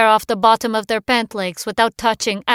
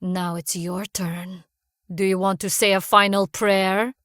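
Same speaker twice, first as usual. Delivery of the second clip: leering threat. Acted. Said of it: "Alexei leered".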